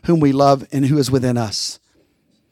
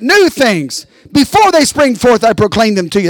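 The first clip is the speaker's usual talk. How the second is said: declaring; 4 semitones higher than usual. Shown as a demonstration. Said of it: "Say it".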